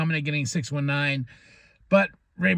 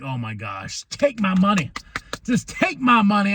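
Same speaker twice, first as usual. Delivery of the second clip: eager fan; 3 semitones higher than usual. Retold or imitated. Excited about tag match.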